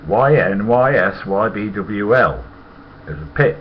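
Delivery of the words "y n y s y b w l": slow, loud letter-by-letter spelling; letter by letter, unhurried and firm. Shown as a demonstration. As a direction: spell it out slowly, each letter on its own. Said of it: "And it was spelt".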